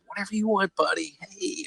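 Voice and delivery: high, coaxing parent voice; indulgent parent. Retold or imitated. Boomer parents promising kids everything, indulgent mock sweetness. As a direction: indulge the kid in a high, light voice.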